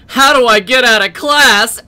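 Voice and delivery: punchline dissolving into loud laughter; cracking up at own joke; laughing. Real, not acted. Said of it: "good setup for a joke".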